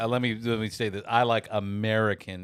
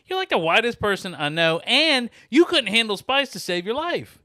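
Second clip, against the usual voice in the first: tag-free retort; 13 semitones higher, 7 dB louder than usual. Retold or imitated. Retold teasing argument with daughter.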